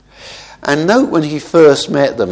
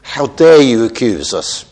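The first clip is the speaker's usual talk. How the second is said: mock indignation; 4 dB louder than usual. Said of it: "full defence".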